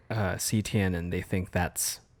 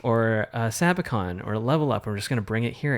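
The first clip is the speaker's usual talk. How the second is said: excited; 2 semitones higher, 4 dB louder than usual. Retold or imitated. Excited decision retold between partners.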